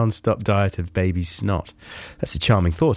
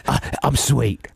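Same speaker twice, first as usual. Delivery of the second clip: 1 lightly voiced dog. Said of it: "he's a dog".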